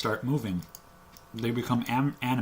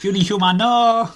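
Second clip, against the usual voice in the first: hammed-up loud wail; mock anguished cry; 10 semitones higher, 11 dB louder than usual. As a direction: cry out like a melodrama. GM mocks the companion's peril.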